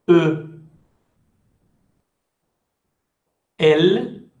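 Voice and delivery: spelling out letters one at a time, each with a pause; slow letter-by-letter dictation. Shown as a demonstration. Teacher spelling a word aloud to students, slow and clear. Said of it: "Je répète une fois chaque lettre".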